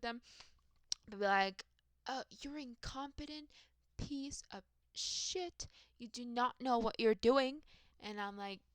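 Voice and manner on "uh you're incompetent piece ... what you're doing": lightly imitated angry patient, higher pitched; hammed-up scolding in a raised pitch; mock berating caller. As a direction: draw out the insult, then push it harder. Imitating patients berating her on call.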